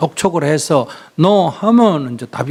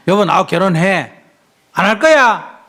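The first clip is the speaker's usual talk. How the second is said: raised voice, demanding an answer; loud demand; 3 semitones higher, 3 dB louder than usual. Shown as a demonstration. Monk shows woman how to confront her boyfriend, loud demand. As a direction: demonstrate snapping loudly at a partner, rising higher at the end. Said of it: "이렇게 큰 소리를 빡 쳐봐".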